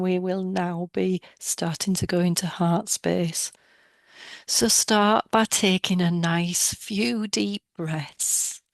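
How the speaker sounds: calm guided-meditation voice with long pauses; measured, soothing meditation leader. Real, not acted. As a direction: guide listeners inward, leaving space after each instruction.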